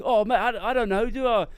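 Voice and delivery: panicking president in a hammed-up London voice; British accent. Podcaster mocks the flustered president, broad British voice. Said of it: "but he's just like".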